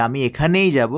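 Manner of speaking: teacher showing emphasis on এখানেই; stress on এখানেই. Shown as a demonstration. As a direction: lean on এখানেই. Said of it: "জোর দিয়ে কথা বলতে চান".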